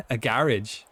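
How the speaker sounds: garage as GARR-idge, stressed up front; Irish pronunciation of garage. Retold or imitated. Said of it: "you mean?".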